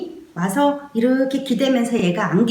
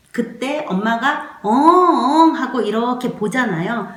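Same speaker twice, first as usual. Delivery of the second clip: ordinary talk, nothing marked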